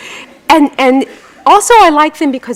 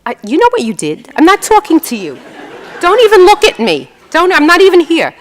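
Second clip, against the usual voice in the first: huffy wife; 8 semitones higher than usual. Retold or imitated. Old wife telling husband off after fight, hammed-up huff. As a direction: play the offended wife ranting. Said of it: "And she says".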